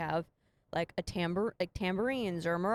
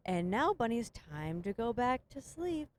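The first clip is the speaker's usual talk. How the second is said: put-on soothing kids' song; 4 semitones higher than usual. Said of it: "it just repeats".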